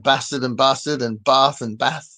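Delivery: "bastard" and "bath", each said with both short a and long ah; regional pronunciation contrast. Shown as a demonstration. Asking American viewers about regional accents, contrasting vowels in "bastard" and "bath". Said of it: "difference in pronunciation between".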